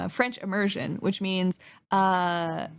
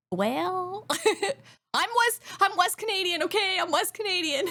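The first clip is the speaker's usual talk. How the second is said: laughing defense; 7 semitones higher than usual. Real, not acted. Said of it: "defending herself, laughing".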